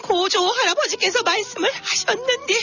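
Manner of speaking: put-on high, frightened old woman; old grandma voice. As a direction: wail like a scared granny. Grandma meets tiger in skit.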